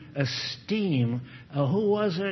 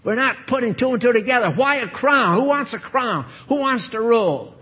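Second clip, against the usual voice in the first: higher, louder challenging questions; rising challenge; 7 semitones higher, 5 dB louder than usual. Real, not acted. Preacher firing questions at congregation, louder and higher. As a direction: press the crowd with questions.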